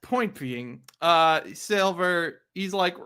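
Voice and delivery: ordinary delivery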